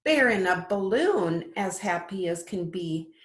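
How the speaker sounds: lilting storybook read-aloud; sing-song picture book voice; reading to children. Acted. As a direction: read it like bedtime story time for little ones. Teacher reads picture book aloud.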